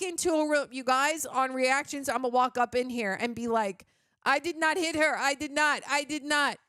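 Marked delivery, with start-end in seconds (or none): 4.2-6.6 lightly hammed-up stilted denial; mock indignant actor. Reviewer planning to walk in quoting the film's lead, mock indignant. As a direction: replay a bad actor's protest. Rehearsing the impression as an entrance.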